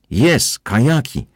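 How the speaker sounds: high, slow eager agreement; eager yes. A narrator's reading. Man in cap answering the captain, eager and slow. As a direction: nod along keenly, drawing it out.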